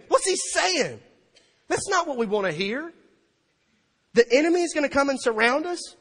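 high, loud incredulous questioning; dismayed crowd. Acted. Preacher voicing people hearing Jesus' warning, loud incredulity. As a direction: imitate alarmed listeners in disbelief.

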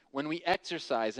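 exercise given a firm falling stress. Shown as a demonstration. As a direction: lean into exercise in when we exercise. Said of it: "I'm emphasizing the word em-, exercise".

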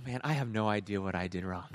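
low, softened mild protest; meek reply. Retold or imitated. Driver answering the officer who pulled him over, meekly. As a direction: play it small and low to an officer.

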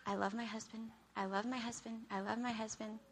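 quiet, patient self-reminder; soft self-talk. Pretend. Wife calming herself about her husband, softly. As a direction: talk yourself calm, softly. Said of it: "Laundry basket".

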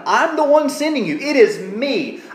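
"I'm" lifted high and "me" pressed home; weight the word "me" in "It is me"; emphasis on I and me. Shown as a demonstration. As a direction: insist who is sending. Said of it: "the emphasis is on him".

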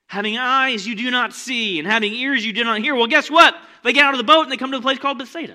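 loud, high, driving preacher voice; preaching at full force. Acted. Pastor firing up the congregation, loud preaching. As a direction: preach it big and urgent.

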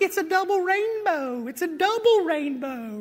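put-on very high, breathless double rainbow girl; awestruck girl. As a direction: gush like the viral rainbow girl. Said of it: "the girl's like".

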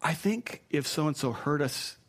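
gentle, tactful redirect; softly steer the talk elsewhere; sensitive. Shown as a demonstration. Preacher demonstrates a sensitive way to stop gossip, tactful and gentle. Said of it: "here's the sensitive one".

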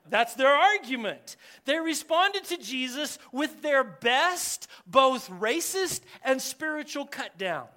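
ordinary talk

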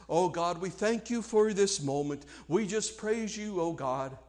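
mock a meaningless prayer, under-voiced; empty pious prayer. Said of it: "they pray the most meaningless, fruitless prayers".

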